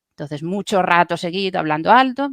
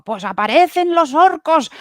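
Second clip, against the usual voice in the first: high announcing game master voice; 8 semitones higher than usual. Retold or imitated. Voice coach retelling her game master line, announcing orcs. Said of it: "yo digo".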